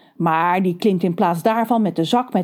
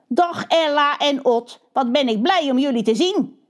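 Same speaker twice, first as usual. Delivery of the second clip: a hint of a smug crow boss, higher; holy crow Kakka; 6 semitones higher than usual. Kakka greets the young crows.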